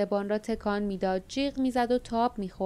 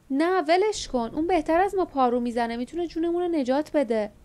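shouting; 6 semitones higher than usual. Acted. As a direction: shout to stop him, holding the first words. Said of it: "لیف فریاد زد".

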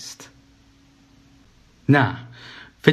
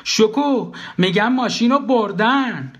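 high, insistent raised voice; high, stretched-out insistence; 10 semitones higher, slower than usual. A narrator's reading. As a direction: raise your voice to get heard. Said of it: "با صدای بلندتر گفتم".

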